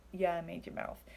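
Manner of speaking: dry, sarcastic retort as God; mock God's dry comeback. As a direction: say it with a sarcastic shrug. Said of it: "I say it sarcastically".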